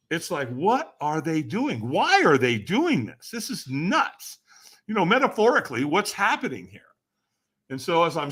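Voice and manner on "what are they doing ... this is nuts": slow, drawn-out incredulous questions; freaking-out disbelief. Retold or imitated. Watching people walk on hot coals, incredulous. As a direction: stretch each question in mock bewilderment. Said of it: "my brain is freaking".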